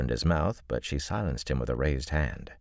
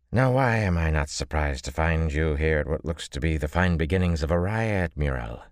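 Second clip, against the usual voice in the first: put-on twangy accent; 2 semitones higher than usual. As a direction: slur the words with a twang. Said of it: "Her slurred accent had a twang in it".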